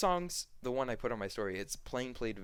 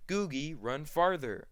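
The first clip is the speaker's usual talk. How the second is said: put-on kids calling to a mascot, higher pitch; raised call, lightly acted; mock calling out; 5 semitones higher, 4 dB louder, slower than usual.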